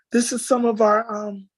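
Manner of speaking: fighting back tears to get the words out; choked up. Real, not acted. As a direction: voice catching in real tears, long halting pauses. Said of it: "I didn't mean to cry".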